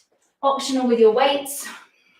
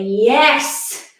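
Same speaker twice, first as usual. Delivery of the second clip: cheering; much slower than usual. Shown as a demonstration. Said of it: "take a nice deep breath and say".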